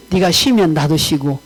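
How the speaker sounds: low, measured voice of God; solemn retold divine answer; God speaking. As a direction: state it as God, pitch dropped, unhurried first half. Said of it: "그런데 하나님이".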